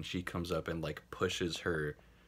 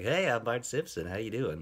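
a mild mock Bart that sounds more like Yakko; bad Bart Simpson impression; 3 semitones higher than usual. Imitating Nancy Cartwright greeting strangers as Bart. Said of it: "That's a really bad impression".

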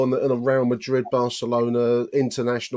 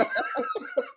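sudden high laugh; 6 dB quieter than usual. Real, not acted. Laughing at the Simpsons quote, high laugh. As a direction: burst out laughing.

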